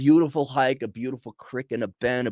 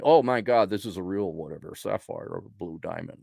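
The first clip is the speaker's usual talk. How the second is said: mock jewelry gush; 7 semitones lower, 3 dB quieter than usual. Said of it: "like, eh, but like".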